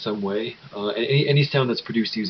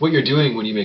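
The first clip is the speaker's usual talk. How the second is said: ordinary talk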